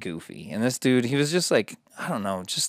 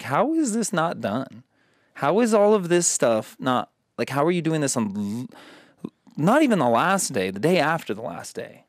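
exasperated; 5 semitones higher than usual. Retold or imitated. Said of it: "And I'm like".

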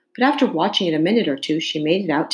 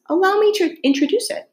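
eager. A narrator's reading. Alice introducing cat to king.

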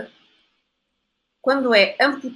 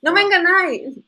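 insistent high protest; 10 semitones higher, 7 dB louder than usual. Real, not acted.

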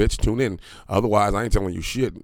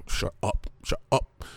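whispered; 6 semitones higher, 5 dB quieter, slower than usual. Real, not acted. Hushing someone off mic.

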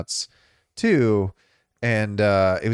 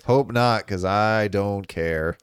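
slow, drawn-out indifferent reply; retold indifference; much slower than usual. Co-host recalls his reaction to the leak, slowly indifferent. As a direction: drag it out with no interest.

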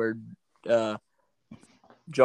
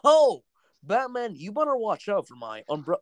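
John Oliver as Penguin; 3 semitones higher than usual. Acted. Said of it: "John Oliver as the Penguin".

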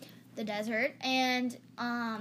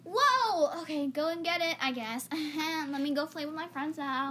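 playing stupid; 4 semitones higher, 4 dB louder than usual. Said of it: "she's playing stupid".

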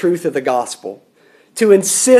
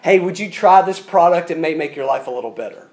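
casual salesman; 2 semitones lower, faster than usual. Acted. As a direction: toss it out as a take-it-or-leave-it offer. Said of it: "than a salesman selling products".

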